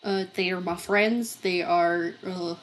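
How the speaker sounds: put-on lightly Southern-accented dragon seller. Seller explaining dragon race rules, Southern accent. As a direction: explain it with an unplanned Southern twang. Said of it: "I do not know where this accent is coming from".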